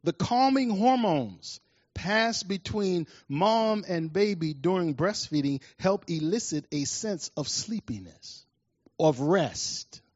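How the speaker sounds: a slow, soothing second reading; slow soothing reread. Shown as a demonstration. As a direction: read it again like a lullaby, drawn out. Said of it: "Let me read it again".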